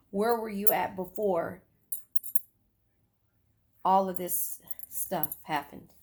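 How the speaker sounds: whispered aside to the viewer; whispered question. Real, not acted. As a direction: lean in and whisper it. Tarot reading, confiding question.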